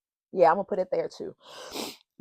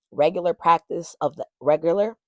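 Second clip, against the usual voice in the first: tripping over words with a tongue ring; speech tangled by a tongue ring; tongue piercing; 4 dB louder than usual. Real, not acted. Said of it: "sorry, this damn tongue ring".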